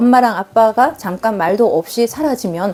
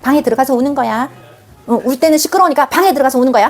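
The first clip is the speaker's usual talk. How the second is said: 장소를 알려주듯 부드럽게 "방에 들어가서 우는 거야"; gently showing; 2 semitones higher than usual. Shown as a demonstration. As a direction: guide kindly, not ordering. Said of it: "그 장소를 알려준다는 느낌". (다정하게 안내하듯)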